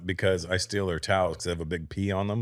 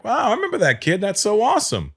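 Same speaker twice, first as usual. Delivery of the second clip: high-pitched retold delight; replaying happy wonder, pitched well up; happy amazement; 11 semitones higher than usual. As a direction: gush like a proud old acquaintance. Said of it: "I was so happy for the guy".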